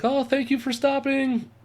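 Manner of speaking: put-on lilting German-accented English. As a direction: imitate a grateful German traveler. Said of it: "my terrible German accent".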